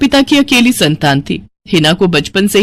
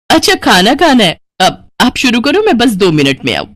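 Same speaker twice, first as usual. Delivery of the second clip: placating daughter. Acted. Daughter putting off her cross mother.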